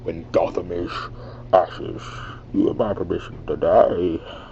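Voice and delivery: measured masked villain voice, in broken phrases; second try at a villain impersonation; Bane. Shown as a demonstration. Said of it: "I'm not getting it right".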